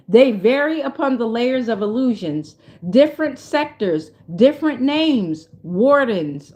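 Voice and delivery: measured, deliberate reading aloud; solemn card reading. Real, not acted. Reading an oracle message to viewers, measured and emphatic. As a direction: intone each phrase as a separate item.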